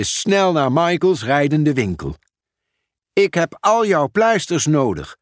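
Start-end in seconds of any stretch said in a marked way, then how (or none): 3.1-5.2 higher-pitched, mildly emphatic announcement; announcing. A narrator's reading. Pieter Post at Michael's mobile shop, announcing lightly. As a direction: announce the need with raised pitch. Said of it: "kondigde Pieter Post aan".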